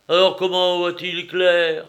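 astonished cry. A narrator's reading. Companion asks how eyeless creatures see, astonished cry. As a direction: demand it in amazement. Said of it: "s'écria Théophraste".

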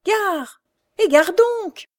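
high, loud rough warning yell; coachman's shout. A narrator's reading. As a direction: bellow at the blind girl to get clear. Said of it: "la voix du cocher lui cria". (cocher qui hurle, voix aiguë et forte)

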